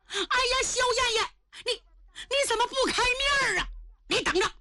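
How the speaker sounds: very high, whining lament; wailing grievance. Acted. Punished official wailing at the empress, aggrieved. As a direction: wail in protest like a wronged man.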